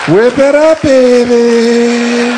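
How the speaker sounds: shouted tease from the crowd; loud heckle. Real, not acted. Audience member heckles the comedian, shouting. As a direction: yell it out at the stage, teasing.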